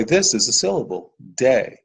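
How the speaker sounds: gentle classroom demo voice; teacher demo to a child. Shown as a demonstration. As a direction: clap out day, then baby, inviting the child to repeat. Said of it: "So we could say".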